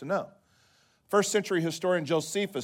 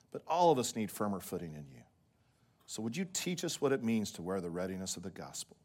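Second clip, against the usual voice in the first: prayer; 3 semitones lower than usual. Real, not acted. Leads a prayer.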